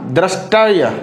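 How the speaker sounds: दृष्टय as "drashtaya", no व; misspelt word read. Shown as a demonstration. Teacher reads the misspelling, v left out. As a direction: sound out दृष्टय slowly as written. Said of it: "नहीं".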